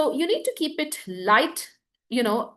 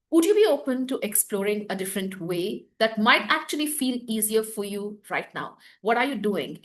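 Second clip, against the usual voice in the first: inviting neutral; 2 semitones lower than usual. Shown as a demonstration. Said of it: "It's inviting, it's neutral".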